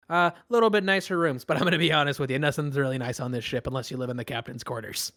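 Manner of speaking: a hint of a chummy pirate officer; lightly voiced friendly first mate. First mate briefs new arrivals on sleeping places, lightly chummy.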